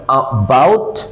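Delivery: about as a tiny uh, then "BOUT"; slow careful about with a brief first vowel; very short schwa. Shown as a demonstration. Teacher recaps for learners, about with very short schwa. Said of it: "একেবারে short".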